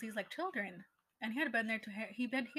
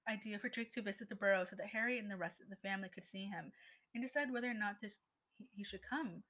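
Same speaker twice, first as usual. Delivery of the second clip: icy tones. Acted. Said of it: "she spoke in icy tones".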